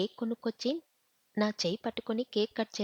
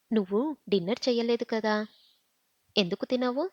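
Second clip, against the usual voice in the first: a mild scold, a touch louder; 3 dB louder than usual. Acted. Husband scolding wife for skipping dinner, mild snap. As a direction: snap at her to eat, lightly. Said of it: "అని కసిరాడు".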